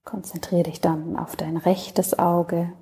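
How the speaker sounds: calm, unhurried Yoga Nidra voice with long pauses; settled, even meditation delivery, phrase by phrase; guided meditation. Acted. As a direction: guide the listener gently into rest, leaving space between phrases.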